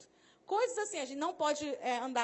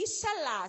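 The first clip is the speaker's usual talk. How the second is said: IXALÁ stretched with a falling end; demonstrating an emphatic Ixalá; soap-opera intonation; 3 dB louder, slower than usual. Shown as a demonstration. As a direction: give Ixalá a theatrical lilt. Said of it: "entonação de voz".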